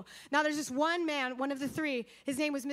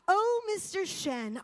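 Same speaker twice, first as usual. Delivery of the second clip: Oh, Mister Shen drawn out, higher and slow; urgent outburst; 4 semitones higher than usual. Retold or imitated. Gladys bursts out to the prisoner, higher, stretched outburst. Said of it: "while I burst out".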